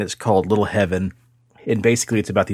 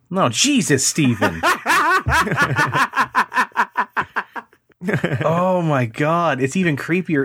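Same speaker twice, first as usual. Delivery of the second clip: high, laughing disbelief; laughing shock; 9 semitones higher than usual. Real, not acted. Host startled by the doll on his friend's camera, laughing in shock. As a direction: crack up at the creepy face.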